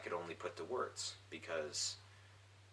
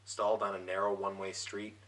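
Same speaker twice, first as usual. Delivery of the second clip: measured recital with a pause after each image; poetry reading. Acted. Poet reading his broken-down car poem, measured recital. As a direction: read it out line by line, deliberately. Reads second poem aloud.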